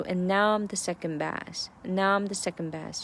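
short "and", strong "now"; 突出now; stress on now. Shown as a demonstration. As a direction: make "and" set off "now". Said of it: "这个now是重点".

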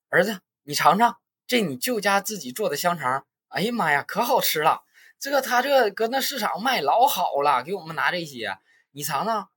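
high, hammed-up salesy mom; mother showing off sausage for nearby passengers; mother selling sausage. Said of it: "戏精上身".

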